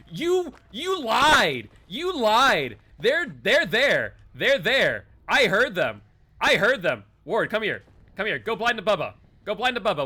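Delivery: high, loud urgent alarm; frantic warning to teammate; panicked. Real, not acted. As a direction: call it out in a rush of panic. Spotting hidden killer, panicked calling.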